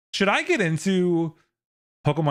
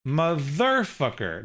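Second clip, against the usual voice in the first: slow "motherfucker", stressed on THER; misplaced stress demo; much slower than usual. Shown as a demonstration. Streamer testing the stress rule, "motherfucker" as mo-THER-fucker. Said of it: "you'll pronounce it on the".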